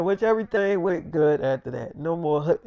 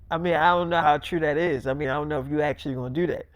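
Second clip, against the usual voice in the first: doubtful mutter; 7 semitones lower, 5 dB quieter, faster than usual. Retold or imitated. David doubting Millie.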